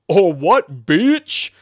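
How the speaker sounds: loud taunt leaping high at the end; defiant shout. A narrator's reading. Demon defying the exorcist, shouted taunt. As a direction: yell it as a challenge. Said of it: "the ass shouted".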